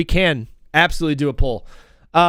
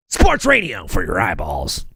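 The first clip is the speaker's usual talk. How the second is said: low, slow voice-over; deep tagline read; announcer voice; 11 semitones lower than usual. Shown as a demonstration. Host repeating the tagline in low announcer voice. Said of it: "Are we gonna go".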